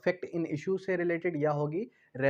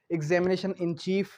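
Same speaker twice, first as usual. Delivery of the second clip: slow key term; much slower than usual. Shown as a demonstration. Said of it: "teacher stresses the key term".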